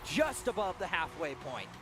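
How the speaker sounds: measured build bursting into a goal call; live play-by-play. Acted. Caster calls the first goal, excited play-by-play.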